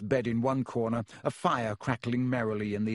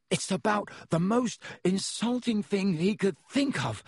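gasped; 8 semitones higher than usual. A narrator's reading. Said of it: "gasped Ron".

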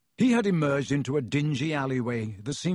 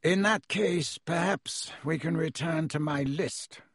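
curt; 3 semitones higher than usual. Acted. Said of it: "said Mister Malfoy shortly".

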